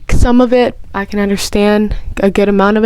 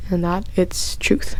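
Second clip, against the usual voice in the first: breathy whisper; 2 semitones lower, 9 dB quieter, slower than usual. Acted. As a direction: drop to a secret whisper. Whispered belief in ghosts.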